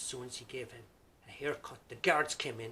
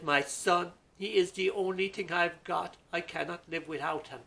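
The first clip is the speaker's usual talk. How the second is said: higher, louder earnest plea; pleading widow; 6 semitones higher, 11 dB louder than usual. Acted. Widow pleading with the king, loud high plea. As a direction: plead with the king for her son.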